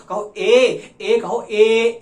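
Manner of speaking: teacher drilling the sound, loud; loud drill call. Shown as a demonstration. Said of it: "अब ए बोलो".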